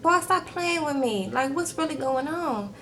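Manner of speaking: high, slow "boy, stop playing" mock sass; sassy disbelief. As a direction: imitate her calling him out. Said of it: "And she like".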